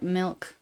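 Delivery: "milk" said close to "melk"; lazy Utah vowel. Shown as a demonstration. Demonstrating own way with "milk", lazy vowel. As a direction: slacken the i of "milk" toward eh. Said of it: "I'll say".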